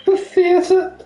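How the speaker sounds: high, slow posh lady voice; haughty posh widow. Pretend. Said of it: "do this voice for ages".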